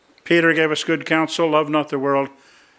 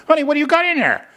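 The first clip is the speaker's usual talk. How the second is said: mock amazement; 11 semitones higher, faster than usual. Husband opens wife's purse, amazed.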